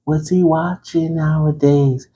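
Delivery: lightly voiced nosy fan; curious viewer. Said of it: "So you're like".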